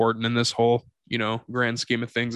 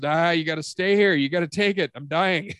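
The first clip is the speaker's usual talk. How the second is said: grandma teasing; 5 semitones higher than usual. Retold or imitated. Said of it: "she goes".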